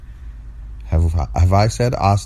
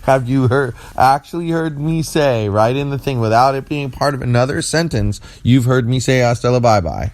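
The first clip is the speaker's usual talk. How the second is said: insistent; 6 semitones higher than usual. Real, not acted.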